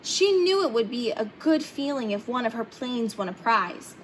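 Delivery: ordinary delivery, nothing marked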